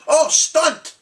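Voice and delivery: put-on high, loud kid squeal; mimicking his little one. Dad imitating his little one's loud high squeal. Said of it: "my little one goes".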